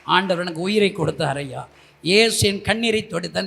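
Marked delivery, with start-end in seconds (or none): none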